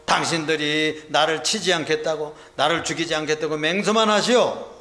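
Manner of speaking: 연기하듯 힘준 외침; 끝을 힘주어 맹세를 요구하듯 외치기; 소리치는 요구. Acted. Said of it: "그러니까 이렇게 소리쳤어요". (다짐받으려 언성 높인 말투)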